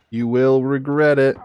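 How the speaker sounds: playful warning, rising on regret; mock threat. Shown as a demonstration. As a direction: threaten with a grin. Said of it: "repeated with more force".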